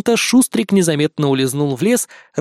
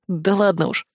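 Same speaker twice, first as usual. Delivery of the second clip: bashful brush-off; 3 semitones higher than usual. A narrator's reading. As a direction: shrug off the praise shyly. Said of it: "смущённо отмахнулся герой".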